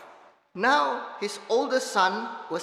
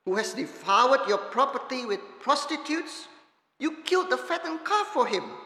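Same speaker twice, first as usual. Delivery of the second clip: put-on an older son's bitter complaint to his father; resentful son, sharper and higher by the end; angry son; 3 semitones higher than usual. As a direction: read with mounting resentment, rising to a higher pitch. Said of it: "and the anger in the son's voice".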